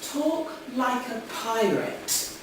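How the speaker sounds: slow, deliberate quote; retold instruction. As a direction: spell it out slowly. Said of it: "one of them said to me".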